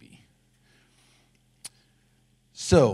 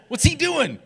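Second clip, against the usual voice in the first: much higher, laughing what's-he-doing; baffled laugh; 14 semitones higher, 7 dB louder than usual. Pretend. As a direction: squeal in playful disbelief. Blind man baffled by spit.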